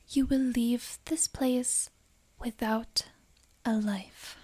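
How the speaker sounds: slow, sinking whisper of menace; chilling threat. Acted. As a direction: let the threat fall slowly and coldly. Taylor corrects into a deadlier threat.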